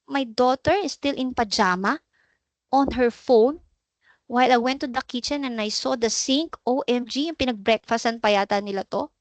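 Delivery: lightly voiced upset mother; frazzled parent. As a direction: act out the shocked tired parent at the sink. Parent acting out coming home annoyed.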